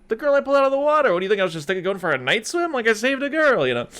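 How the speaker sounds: exasperated insisting. Retold or imitated. Character insisting he saved a girl.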